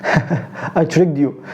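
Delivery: slow, chuckling admission; laughing. Real, not acted. Teacher teasing students after a trick question. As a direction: laugh through the tease.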